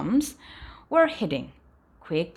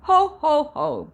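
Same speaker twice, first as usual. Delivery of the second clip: higher, louder hammed-up ho ho ho; booming laugh; 8 semitones higher, 5 dB louder than usual. A narrator's reading. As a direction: laugh big like the dragon. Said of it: "boomed the dragon".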